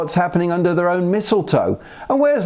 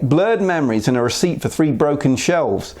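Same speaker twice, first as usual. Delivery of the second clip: ordinary talk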